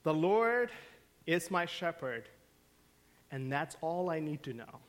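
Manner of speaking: lightly voiced child reciting with pride, then fading; mildly proud kid at the microphone; proud little boy. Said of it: "said proudly".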